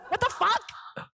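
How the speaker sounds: high, slow, stretched-out disbelief; outraged. Retold or imitated. Complaining about her manager's favoritism, high drawn-out outrage. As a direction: drag it out in shocked outrage. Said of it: "I felt like the black sheep".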